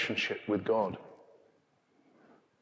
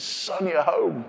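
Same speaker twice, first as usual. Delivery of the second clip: tender; 6 semitones higher, slower than usual. Acted. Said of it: "slings arms around his neck and says".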